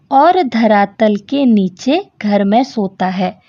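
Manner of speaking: measured verse reading, pausing after each line; riddle poem recital. Acted. Teacher reading children a riddle, measured poem recital.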